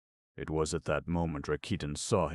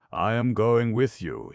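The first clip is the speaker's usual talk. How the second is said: loud, higher gleeful yell; shouting with glee; 7 semitones higher, 8 dB louder than usual. A narrator's reading. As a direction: shout it while scrambling aboard. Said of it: "he kept shouting".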